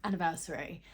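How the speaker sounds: breathless after climbing into bed; talking while catching breath. Real, not acted. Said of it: "I'm so out of breath".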